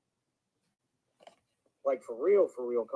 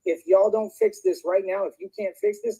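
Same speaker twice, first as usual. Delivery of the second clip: much higher, slowed angry yell; shrieking demand; 12 semitones higher than usual. Real, not acted. Streamer demanding his girlfriend fix it, high angry yell. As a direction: cry out the demand. Replayed rant, voice spikes.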